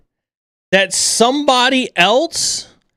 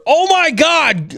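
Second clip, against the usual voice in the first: higher, slower mock-panicked gasp; overly reactive voice; 7 semitones higher, slower than usual. Host mocking panicked job seekers, overly reactive voice. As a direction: ham up the panic of a doom-scroller. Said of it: "I have to say it in the overly reactive voice".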